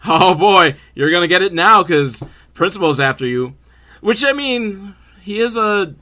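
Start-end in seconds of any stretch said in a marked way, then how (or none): 0.1-3.5 mischievous taunt. Retold or imitated. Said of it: "this super mischievous smile".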